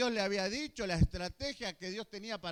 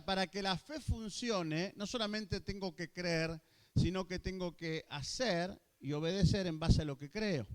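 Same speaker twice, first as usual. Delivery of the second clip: usual speaking voice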